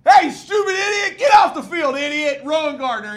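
high, loud hammed-up yelling; mock angry coach. Coach yelling a kid off the field, mock angry shout.

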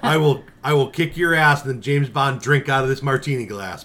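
laughing mock brag; tough-guy boast through laughter; laughing tough talk. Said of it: "You're like".

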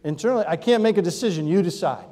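dramatic indecision over lunch; overplayed inner conflict; mock torn. Shown as a demonstration. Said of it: "And you say".

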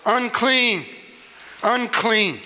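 leper's yell. Retold or imitated. Preacher voicing the outcast leper calling out. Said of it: "his raspy voice as he yells".

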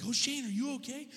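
put-on alarmed, high-pitched parent checking on a child; worried parent. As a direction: act out a parent's anxious concern. Worried parents greet screaming son.

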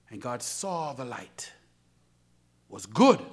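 soft, low whisper; preacher hushing the congregation; whispered reading. Acted. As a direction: hush it to the church.

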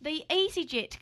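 an attempted Aussie accent; put-on Australian accent. Co-host starting the airline story, put-on Australian accent. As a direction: present the story as a playful Australian. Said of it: "do the rest of the podcast like this".

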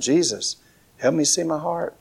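softened, earnest plea to Jesus; quiet prayer. Real, not acted. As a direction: drop into a soft, sincere prayer. Leads congregation in morning prayer.

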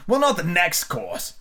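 아주 느리고 생각에 잠긴 말투; 한 마디씩 곱씹듯 천천히; slow thoughtful. A narrator's reading. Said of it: "in a slow, thoughtful tone".

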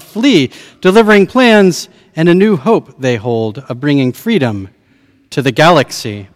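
grand Shakespearean stage chorus; hammy stage actor. Acted. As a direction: declaim it like a theatre prologue. Preacher declaims Shakespearean Star Wars prologue.

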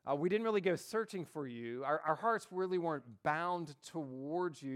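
cold, uncaring father; callous, cold voice. Acted. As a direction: say it coldly, without feeling. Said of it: "in just kind of a callous, cold voice".

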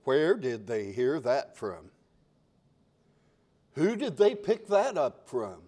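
lightly acted bewilderment; wondering. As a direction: puzzle over it aloud. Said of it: "And you wonder".

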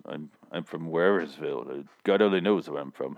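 low, vague mumbling impression; Charlie Bronson. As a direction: mumble it low, mimicking a vague tough guy. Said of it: "He talks like this".

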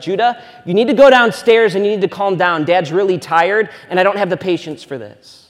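a touch of a tired dad's firm order; lightly voiced irritated father; mildly stern dad. Dad sending his excited son downstairs, mildly stern. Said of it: "So I was like".

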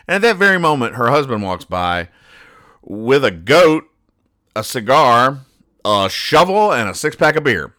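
gleeful list of the awful husband; comic reveal. Real, not acted. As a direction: build up the punchline item by item.

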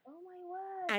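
muffled behind hands; gasping through hands over mouth. Real, not acted. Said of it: "hands over her mouth".

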